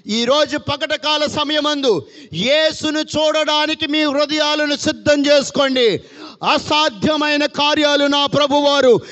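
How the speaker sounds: high, driving sermon cadence; full-force preaching. Acted. Pastor drilling the congregation on whom to look to, fervent preaching. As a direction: hammer each question home to the crowd.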